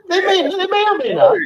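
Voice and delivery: giggling through the words; laughing. Real, not acted. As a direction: laugh it out, high-pitched.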